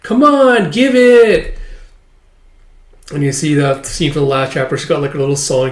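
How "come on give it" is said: high, loud, pleading shout; insistent demand. Acted. Character demanding it be handed over, insistent.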